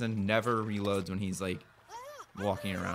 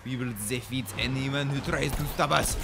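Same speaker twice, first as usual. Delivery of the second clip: slow, grandiose boast; hammed-up conqueror. Players boast as masters of the game, hammed-up proclamation. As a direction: proclaim it like a cartoon villain.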